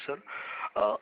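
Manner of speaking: ordinary talk, nothing marked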